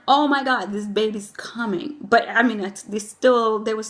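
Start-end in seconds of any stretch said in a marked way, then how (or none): 0.1-1.9 retold excitement. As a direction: lightly relive the excited realization. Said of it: "I really got excited 'cause I'm like".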